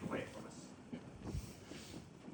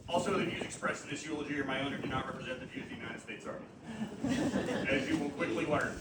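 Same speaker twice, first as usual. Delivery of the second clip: laughing; 5 semitones lower, 4 dB quieter than usual. Real, not acted. Joking aside in a eulogy.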